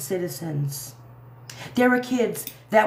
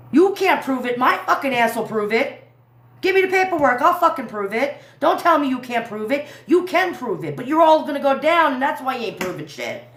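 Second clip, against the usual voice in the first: raised, heated rant; angry; 3 semitones higher than usual. Real, not acted.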